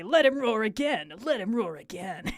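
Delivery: mock Duke. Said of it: "make the Duke say".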